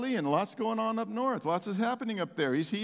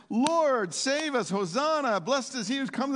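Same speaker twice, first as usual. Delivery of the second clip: fervent cry; 6 semitones higher than usual. Acted. Preacher voicing Psalm eighteen's cry to the Lord, fervent calling. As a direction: call out to the arriving rescuer.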